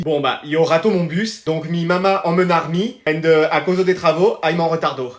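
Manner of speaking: slow, hammed-up fake Spanish accent; student faking Spanish accent for the teacher, slowly; mock Spanish accent. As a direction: stumble through bad fake Spanish accent. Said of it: "et en espagnol?".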